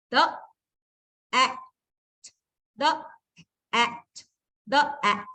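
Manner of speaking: "the" "at" said apart with pauses; sounding out words. Shown as a demonstration. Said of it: "let's join the sound".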